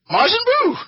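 hammed-up epic reveal; dramatic announcement. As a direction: proclaim the monster's arrival. Monster emerges in recap.

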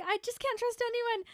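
high, loud mock wail; dramatic whine. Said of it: "she's like".

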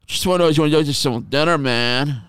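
imitating the pushy caller's invite; mocking the friend. Friend's request mimicked.

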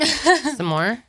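laughing echo. Real, not acted. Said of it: "You say s'more weird".

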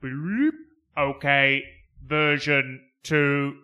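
robot announcer. Retold or imitated. Voicing the car AI.

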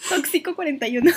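"Tóxico" dicho "toxíco", acento en la i; leído sin tilde. Retold or imitated. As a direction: pronuncia "Tóxico" como palabra llana, toxíco. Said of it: "sin acento, sin tilde". ("Tóxico" leído mal a propósito, toxíco)

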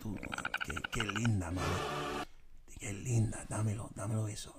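mock Hispanic accent. Shown as a demonstration. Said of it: "I have the accent down".

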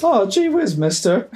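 put-on high, bright, eager kid voice; squeaky golly-gee kid from an old sitcom; wholesome 1950s kid. Repeating Gee whiz in character.

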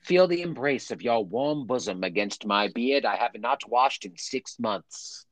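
slow, drawn-out period love letter; 1800s love-letter writer. Acted. Man reading his love letter to Agnes, slow and florid. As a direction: play a yearning old-time letter writer, savoring each phrase. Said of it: "love letters, man. You writing that shit".

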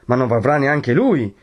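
high-pitched raging threat; distraught cry. A narrator's reading. Renzo threatens to go after his rival, distraught and raging. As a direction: rave on, beside yourself. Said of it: "gridò Renzo con un viso più che mai stravolto".

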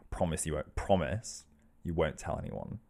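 low, soft plea for secrecy; hushed confession. Acted. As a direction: confide it quietly, as a downcast character. Mister Tickle confiding a shameful secret.

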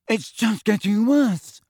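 high, slow, thickened wail; thick voice. A narrator's reading. Injured player to captain about her nosebleed, thick voice. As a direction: complain through a bleeding nose. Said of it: "said Katie thickly".

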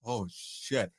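hushed, low realization; sinking dread. Retold or imitated. Storyteller realizing who is guilty, hushed dread. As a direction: say it very softly, pitch dropping. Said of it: "my face just dropped like".

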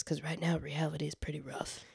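soft whispered aside. Real, not acted. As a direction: murmur it like a secret. Wry aside about rough reality.

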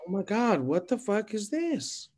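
high-pitched mock disbelief; retold shock. Retelling own shocked reaction.

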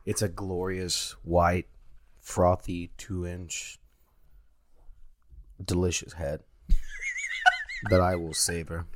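slow, savoring seductive voice at normal volume. Acted. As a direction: linger over each word like a tease. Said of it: "I'm being really seductive right now".

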